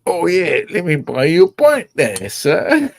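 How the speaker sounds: friendly pub local. Retold or imitated. Pub locals voiced in story.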